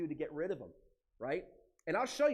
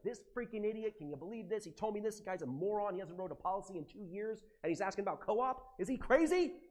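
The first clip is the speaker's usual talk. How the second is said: higher and rising into an exasperated rant, peaking in a shout; mock angry venting; 5 semitones higher than usual. Venting to his AI about a lazy broker, exasperated rant. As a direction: vent like you're fed up with a useless broker. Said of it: "I'll get on the A I and I'll be like".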